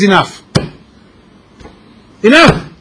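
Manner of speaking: fed-up cry, rising into a shout; exasperated. Acted. Fed up man telling his host he must leave, exasperated shout.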